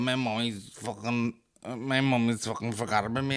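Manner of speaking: put-on whiny drunk child. Drunk son locked out, mildly whining about his mommy. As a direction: whimper it lightly like a lost kid. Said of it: "it's like".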